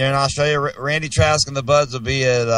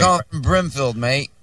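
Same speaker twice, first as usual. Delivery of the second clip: mock Australian accent. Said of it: "I don't know where this accent came from".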